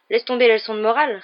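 plus haut et plus fort, agacé; coupe-lui la parole, excédé; impatient. Acted. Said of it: "répliqua Ron avec impatience". (Ron rembarre Hermione avec impatience)

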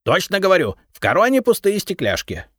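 изумлённый высокий голос кладовика; искренне удивиться; изумлённо. A narrator's reading. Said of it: "изумился Репей". (удивлённый кладовик)

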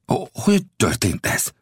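stammering. A narrator's reading.

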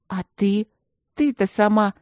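mild mock yell of hurt; a hint of a tearful shout; shouting back. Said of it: "закричала и Юлька".

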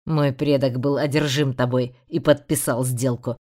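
calling out the demon, firm; lightly voiced stern hero. Rey names the demon. (твёрдый голос Рейнарда)

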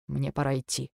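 soft and curt; husband ending the call; cold dismissal. A narrator's reading. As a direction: end it quietly. Husband cuts call coldly.

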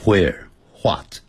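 WHERE and WHAT with an "hw" onset; Northeastern where, what. Shown as a demonstration. Teacher quotes insistent New Yorkers, "where what" with hw. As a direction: say hwere, hwat for "where what". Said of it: "他们坚持要念成where".

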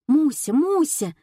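высоко и громко, вереща в трубку; excited high squeal down the phone; пронзительный вопль. A narrator's reading. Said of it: "заверещала трубка". (визгливо, заверещав)

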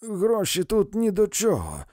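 high shrieked threats, fists clenched; shrieking. A narrator's reading. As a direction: screech threats at them. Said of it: "верещала вона".

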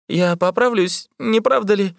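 barely holding on, pleading for hope; weak wounded voice. A narrator's reading. Wounded man asks the surgeon, frail and high. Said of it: "спросил раненый слабым голосом".

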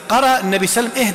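normal talking voice

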